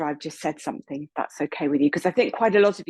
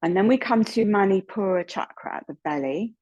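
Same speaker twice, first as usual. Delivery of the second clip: unhurried yoga teacher guidance, pausing between instructions; measured meditation-leading voice with long pauses; guided meditation. Real, not acted. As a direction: guide them gently from one breath to the next. Leads a chakra breathing meditation.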